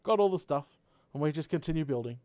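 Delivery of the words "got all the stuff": bright ta-da reveal; mock announcement. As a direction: announce it like a magic trick. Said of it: "I can just say".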